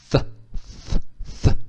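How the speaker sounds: TH isolated, tongue between the teeth and blowing; blown TH. Shown as a demonstration. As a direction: puff out a lone TH with pauses between. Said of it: "pôs a língua no meio dos dentes e assoprou". (th soprado, língua entre os dentes)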